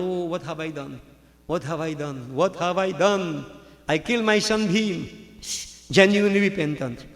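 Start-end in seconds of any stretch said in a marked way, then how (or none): 0.0-5.1 lamenting. Retold or imitated. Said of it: "then he started lamenting".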